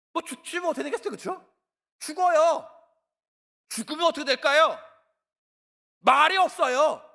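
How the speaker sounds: emphatic. Real, not acted. Emphatic answer about death.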